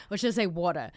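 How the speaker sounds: "water" said the Australian way, ending in an open "ah"; Australian accent on "water", no r. Shown as a demonstration. Confused expat weighing her own word, Australian accent on "water". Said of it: "my brain doesn't know".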